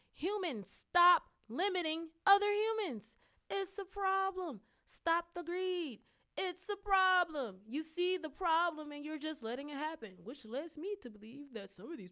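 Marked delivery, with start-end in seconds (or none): 0.1-10.2 loud, high, forceful scolding; angry rant. Real, not acted. Speaker scolding humanity about greed, loud and angry. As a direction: lay into them with rising fury.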